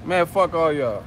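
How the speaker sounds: impression of a frustrated boxer; hammed-up sore complaint; Wilder. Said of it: "Best Wilder impersonation".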